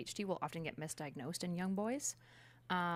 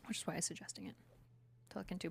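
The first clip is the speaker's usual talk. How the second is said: whisper; 6 dB quieter, faster than usual. Real, not acted. Aside to listener.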